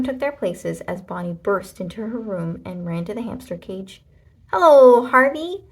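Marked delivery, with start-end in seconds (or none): 4.5-5.6 put-on high, loud child greeting; girl's greeting. A narrator's reading. Girl greets her hamster on coming home, high and loud. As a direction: greet the pet brightly like a little girl.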